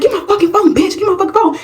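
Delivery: high-pitched, heated acted demand; angry demand. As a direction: play a friend ready to fight for the phone. Friend about to fight over phone.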